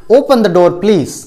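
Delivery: slow, gentle asking tone; polite request. Shown as a demonstration. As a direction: ask nicely, drawing it out. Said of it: "तो वो हो जाएगा request".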